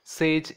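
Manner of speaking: "sage" as one single beat; one-breath syllable. Shown as a demonstration. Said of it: "You have to utter this".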